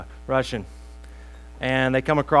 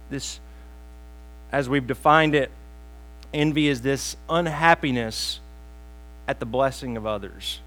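ordinary delivery

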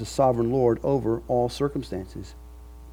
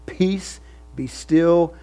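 firm, raised command to the storm; commanding rebuke; 5 semitones higher, much slower than usual. Acted. Jesus rebukes the wind and sea, a firm raised command. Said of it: "he rebuked the wind and he said".

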